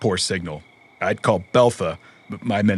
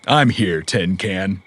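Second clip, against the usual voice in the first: reassuring; 5 dB louder, much slower than usual. Acted. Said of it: "Could you say that again?".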